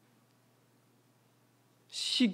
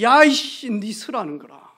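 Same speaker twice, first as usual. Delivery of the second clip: retold drunk yell; 5 dB louder than usual. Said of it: "고함을 지르는 거예요".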